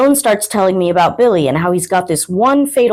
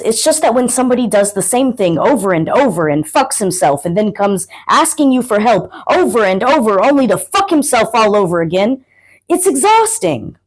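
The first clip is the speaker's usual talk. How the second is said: exasperated; 2 semitones higher than usual. Acted. Friend venting about his reckless best friend, exasperated. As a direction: vent in mild exasperation, pitch leaping at the end. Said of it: "he's exasperated".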